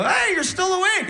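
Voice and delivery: high, sing-out hello; cutesy greeting. Retold or imitated. Husband home from a gig greets wife, high and cutesy. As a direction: pipe it up high, sweet-talking.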